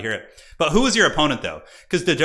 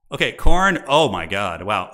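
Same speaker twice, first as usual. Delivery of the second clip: surprised; 2 semitones lower, 6 dB louder, slower than usual. Real, not acted. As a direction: caught off guard by the Khorne stat. Reacts to surprising Khorne stat.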